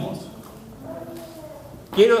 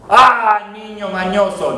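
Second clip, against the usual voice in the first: mock scold; 4 dB louder, slower than usual. Mock parent scolding fussy child.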